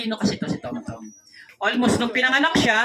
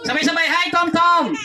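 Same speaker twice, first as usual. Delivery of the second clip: group greeting call; 5 semitones higher than usual. Real, not acted. Host calls crowd to greet.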